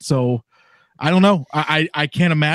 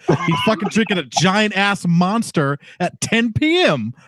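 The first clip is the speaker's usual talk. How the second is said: laughing, slow; 3 semitones higher, slower than usual. Real, not acted. Mocking Fred's energy drink.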